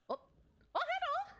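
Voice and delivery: high startled hello; surprised. Real, not acted. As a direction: yelp in surprise. Surprised by something in game.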